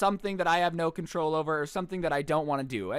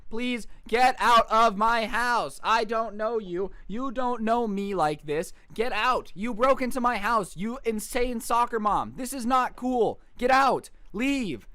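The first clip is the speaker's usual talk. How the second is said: retold yelling; 4 semitones higher, 3 dB louder, slower than usual. Ordering Karen out of house.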